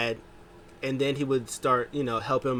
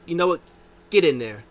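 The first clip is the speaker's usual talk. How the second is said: louder, barked order; mock order; 5 semitones higher, 8 dB louder than usual. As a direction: send him in, annoyed. MVP orders partner.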